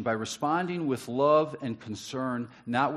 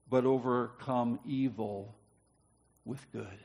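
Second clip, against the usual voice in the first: slow solemn reading; 3 semitones lower, 4 dB quieter, slower than usual. Shown as a demonstration. Preacher reading the verse slowly to the congregation, fading soft. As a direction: drop low and soft on with good. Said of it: "first reading of the verse".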